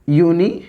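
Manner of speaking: यूनिवर्सिटी broken into yoo-ni, var, si-tee; यूनिवर्सिटी spaced out, opening on yoo; yoo sound. Shown as a demonstration. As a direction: say यूनिवर्सिटी in separated chunks. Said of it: "यू से अगर हम word लें".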